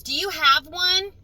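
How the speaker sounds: mock the neighbour yelling a demand; imitating a yell. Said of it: "She's yelling at me through the gate".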